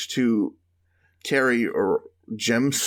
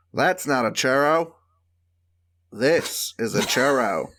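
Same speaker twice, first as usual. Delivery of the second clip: Crocodile Dundee Australian. Retold or imitated. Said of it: "It's hard to say churro in an Australian accent".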